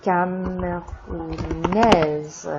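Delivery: camerounaise drawn out slowly, ending in -aise; slow model pronunciation. Shown as a demonstration. Teacher modeling the feminine camerounaise slowly for students. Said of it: "Je suis camerounais".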